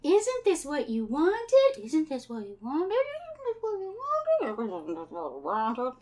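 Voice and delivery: slow, eerie overlapping echo; echoing taunt. Acted. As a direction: draw it out like echoes in a cavern. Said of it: "it's echoing all throughout the cavern".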